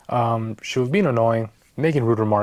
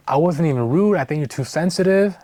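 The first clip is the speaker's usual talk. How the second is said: mocking high voice; 5 semitones higher than usual. Retold date's defensive reply.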